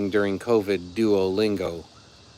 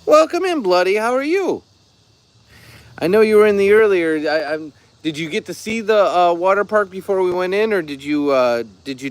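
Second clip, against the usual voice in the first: high, squeaky little piglet voice; tiny timid cartoon pig voice; 8 semitones higher, 5 dB louder than usual. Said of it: "I got Piglet's voice in my head".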